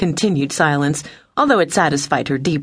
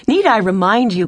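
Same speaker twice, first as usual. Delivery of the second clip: indignant rebuke; 6 semitones higher, 3 dB louder than usual. A narrator's reading. Captain rebukes the commander.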